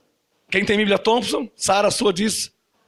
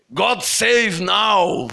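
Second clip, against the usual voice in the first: English prayer shout; much slower than usual. Pretend. Preacher quoting English prayer.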